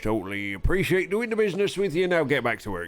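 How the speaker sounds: put-on Yorkshire accent. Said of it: "lose a bloody Yorkshire accent".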